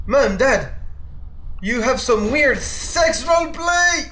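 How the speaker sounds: drawn-out high yell. Real, not acted. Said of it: "My neighbor heard me yelling".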